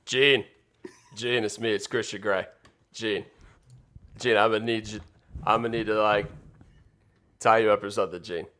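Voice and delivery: murmured mock-seductive character read; Christian Grey. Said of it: "Christian Grey, this is a direct line".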